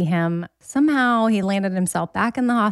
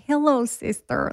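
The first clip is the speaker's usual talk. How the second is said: higher-pitched mock Russian greeting; Russian accent; 4 semitones higher than usual. Imitating her sister's college roommates, mock Russian accent. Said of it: "talked in this Russian accent".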